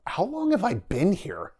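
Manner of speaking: high, drawn-out question; imitated bewilderment. Delirious prisoner asking himself in camp, mock bewilderment. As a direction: stretch it out like a dazed prisoner, retold.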